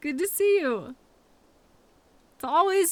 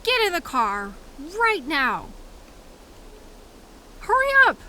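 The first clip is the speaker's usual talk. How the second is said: urgent shout; 4 semitones higher than usual. Acted. Driver yelling at coworker to get in. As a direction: bark the order to get in.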